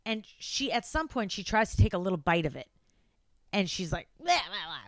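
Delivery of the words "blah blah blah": imitated gagging "blah, blah, blah"; disgusted blah noise. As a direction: spit out a mock retch at a foul taste. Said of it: "It was, like, disgusting".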